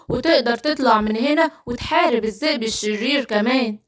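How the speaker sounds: low, gentle wizard voice; low, calm storybook wizard; kindly wizard. Acted. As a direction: play a helpful magician soothing a cub, pitched low.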